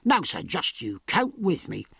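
"Now, sir" firmly marked out; firm, insistent "count with me"; emphatic. A narrator's reading. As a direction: press home "just you count with me". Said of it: "he went on emphatically".

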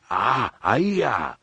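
put-on a Wookiee barking a scolding at the boy. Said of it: "Chewie scolded".

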